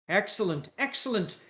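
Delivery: approving British caricature; British accent. Acted. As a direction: praise the candidate in a British accent. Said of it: "with a British accent".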